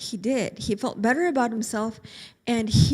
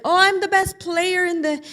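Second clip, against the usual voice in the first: put-on bragging boy; 4 dB louder than usual. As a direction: show off to the family. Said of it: "starting to tell his family".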